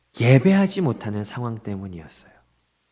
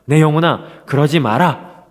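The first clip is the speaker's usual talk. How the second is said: louder, slow stern rebuke to his own soul; self-rebuke; 5 dB louder, slower than usual. Acted. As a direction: scold your own soul firmly. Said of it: "책망해요".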